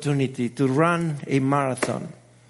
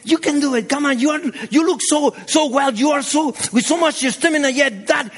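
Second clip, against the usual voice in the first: daughter's cheering voice; 7 semitones higher, 4 dB louder, faster than usual. Retold or imitated. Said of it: "she started".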